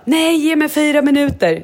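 stressad vädjan. Retold or imitated.

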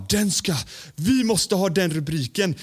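a hint of a monster growl put on the cohost's words. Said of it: "som att göra ett monster".

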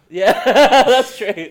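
laughing while agreeing; breaking into laughter. Real, not acted. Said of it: "laughing at joke".

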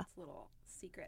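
soft conspiratorial whisper. Real, not acted. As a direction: let them in on a secret. Sharing a makeup secret.

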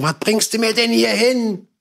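high, slow incredulous mock voice; baffled bystanders. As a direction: act stunned and confused, dragging it out. Studio guys baffled at Farid.

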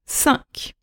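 cinq whispered with the final K sounded. Real, not acted. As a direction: cinq breathed out, K still clear. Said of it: "whispered final word".

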